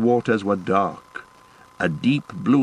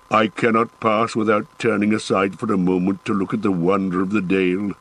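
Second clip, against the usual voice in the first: lightly voiced dwarf, eager and reverent; a hint of a proud dwarf longing to look; dwarf Gimli. Gimli speaks in story.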